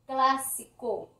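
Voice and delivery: Clásico slowly, split as CLA-si-co; stress on first syllable. Shown as a demonstration. Teacher showing esdrújulas, Clásico slowly stressed on "cla". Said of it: "Miren que cla es la".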